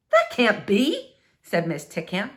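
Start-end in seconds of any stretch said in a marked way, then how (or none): 0.1-1.2 slow, stunned denial; drawn out in disbelief; slow stunned neighbor. Acted. Missus Tickham disbelieves.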